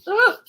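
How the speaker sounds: short grossed-out groan; startled disgusted ugh. Real, not acted. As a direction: shudder out an ugh. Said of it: "something touched me".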